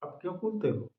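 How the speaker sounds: soft, hushed wife's question; said softly. A narrator's reading. Wife gently asks her husband, softly. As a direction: ask it gently, almost under the breath. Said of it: "वह धीरे से बोली".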